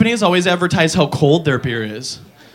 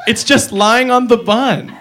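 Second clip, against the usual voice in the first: put-on whiny girl; slower than usual. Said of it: "she goes".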